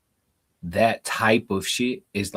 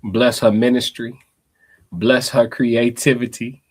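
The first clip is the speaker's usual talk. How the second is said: loud, slow preacher blessing; mock preacher blessing; 3 semitones higher, 6 dB louder, slower than usual. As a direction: bless her like a pastor.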